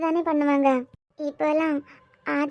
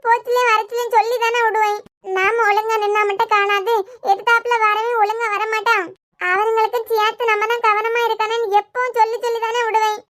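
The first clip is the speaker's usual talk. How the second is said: tearful lament; 4 semitones higher than usual. Acted. Mother lamenting to her injured daughter, distressed and tearful. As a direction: lament as a worried mother near tears.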